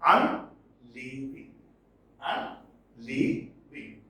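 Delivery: UNLEAVING slowly split into syllables; unleaving broken up with pauses; stressed syllables marked. Shown as a demonstration. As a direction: spell out the beats of unleaving, slowly. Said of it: "The syllables in red are stressed".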